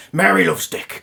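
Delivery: low, loud possessed Scouse voice; lightly imitated Scouse medium voice; Scouse accent. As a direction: do the speaker's possessed Liverpool woman. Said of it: "in his lovely little Scouse accent".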